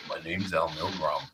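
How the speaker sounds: put-on low, quiet old man's introduction; understated old-timer voice, dropped low; old guy. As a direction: imitate an old man, low and soft. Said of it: "this old guy's looking at me".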